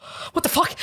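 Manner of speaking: high-pitched startled what the fuck; shocked disbelief. Retold or imitated. Retelling being snubbed by two Aussie guys, mock shocked. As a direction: blurt it out, caught completely off guard.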